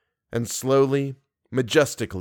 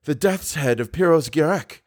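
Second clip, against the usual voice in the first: startled near-exclamation, pitched higher; mild exclamation; 4 semitones higher than usual. Acted. Masquerader recognized at the ball, mildly exclaiming. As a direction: blurt it in startled recognition, not shouted. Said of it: "he nearly exclaimed".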